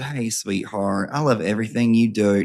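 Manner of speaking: lightly imitated Southern accent. Host imagining how the email writer talks, Southern accent. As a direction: read the fan email with a Southern twang. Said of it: "I feel like she has a Southern accent".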